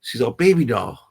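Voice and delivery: a hint of a tender nurse cooing at a scared new dad; sweet nurse voice. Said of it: "She's like".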